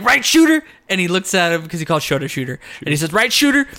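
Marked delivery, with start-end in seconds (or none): 0.0-0.6 higher, louder imitated question; mock prompting. Acting out Moxley prodding Shota. 3.1-3.7 higher-pitched imitated question; mock prompting. Acting out Moxley prodding Shota.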